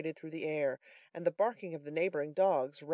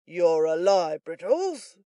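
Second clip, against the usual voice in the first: indignant Giles; 8 dB louder, much slower than usual. A narrator's reading. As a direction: throw it back loudly.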